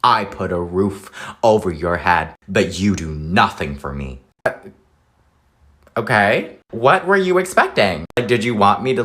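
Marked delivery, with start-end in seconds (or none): 0.0-4.2 mock parent. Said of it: "parents will come up to you and be like".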